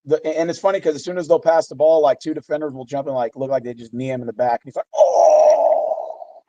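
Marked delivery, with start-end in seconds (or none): 5.0-6.4 much higher, put-on cry of shock; exaggerated startled oh; mock surprised yelp. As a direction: ham up a fake hurt yelp. Mocking a player's fake reaction.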